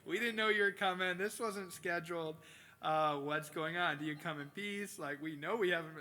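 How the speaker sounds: hammed-up panic at an unexpected visit; alarmed townsfolk. Town elders flustered as the prophet shows up, alarmed. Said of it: "And they're like".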